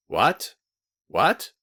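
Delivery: rising, puzzled double question; amazed. A narrator's reading. Velchaninov amazed at Pavel's outburst, surprised rising questions. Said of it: "opening his eyes in amazement".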